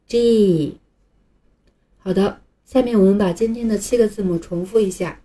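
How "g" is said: "G" said as English jee; 连读G; blended G. Shown as a demonstration. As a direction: join dj and ee into "G". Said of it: "连起来念一下".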